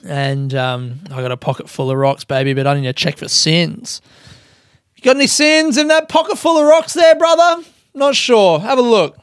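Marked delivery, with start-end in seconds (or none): 5.0-9.2 higher put-on preacher voice. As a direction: play a folksy preacher teasing a brother. Mock preacher with pocket of rocks.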